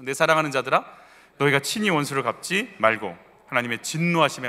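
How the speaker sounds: measured reading aloud of a Bible verse; scripture reading. Acted. Pastor leading the congregation in a verse, scripture reading. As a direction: read it out in phrases for others to follow.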